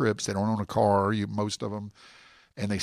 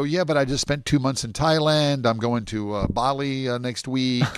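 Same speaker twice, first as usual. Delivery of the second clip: casual brag; 3 semitones higher than usual. Retold or imitated. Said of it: "and then they go".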